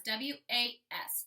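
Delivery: letters spelled out slowly; slow spelling. Shown as a demonstration. Teacher spelling the sight word for kids, slowly. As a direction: spell W A S one letter at a time. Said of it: "I know how to write my sight word was".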